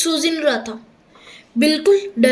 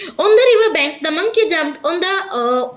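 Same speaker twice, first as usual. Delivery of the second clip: slow English story reading, pitched up at the start; story read-aloud; much slower than usual. A narrator's reading. Teacher resuming the riverbank tale, measured read-aloud.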